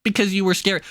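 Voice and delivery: slow, sneering mock excuse; a touch of a smug shooter, mocked. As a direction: drawl out the fake excuse. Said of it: "they can claim".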